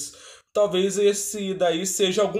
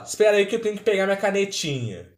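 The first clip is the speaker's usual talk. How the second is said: quick, higher mock girl voice; light imitation of a little girl, a bit higher and fast; imitating her; 4 semitones higher, faster than usual. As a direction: toss it off fast like a kid grabbing her pen. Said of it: "ela fala".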